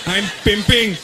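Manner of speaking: hammed-up Indian accent, trying to sound cool. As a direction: play an uncool Indian club-goer, accent thick. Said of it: "two Indian guys in a club".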